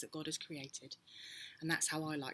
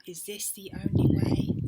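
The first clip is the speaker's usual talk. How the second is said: desperate; 3 semitones higher, 13 dB louder than usual. A narrator's reading. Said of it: "Desperate, he said".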